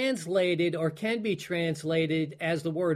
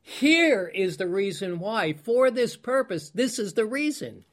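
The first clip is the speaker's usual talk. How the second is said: mild exclamation; 3 semitones higher than usual. Retold or imitated. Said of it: "And Jesus explain, exclaims".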